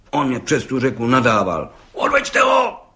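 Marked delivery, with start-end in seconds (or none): 1.9-2.8 much higher, shouted order; furious roar. Acted. Judge roaring to have the bricklayer taken away. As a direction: bellow it at the guard. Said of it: "Zařval okresní soudce".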